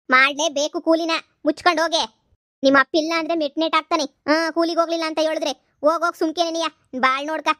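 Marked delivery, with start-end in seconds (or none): 0.1-6.5 loud, harsh orders to the daughter; angry scolding. Acted. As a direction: shout her down. Mother orders daughter to work. (ಕೋಪದಿಂದ ಜೋರಾಗಿ ಗದರಿಸುವುದು)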